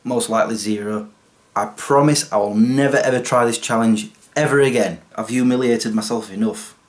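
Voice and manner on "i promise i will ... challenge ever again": ordinary delivery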